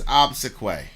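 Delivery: "obsequy" as OB-suh-kway; chosen pronunciation. Shown as a demonstration. Host settles on a band name pronunciation, OB-suh-kway. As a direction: end "obsequy" on "kway", with a weak middle. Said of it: "I'm just gonna pronounce it as".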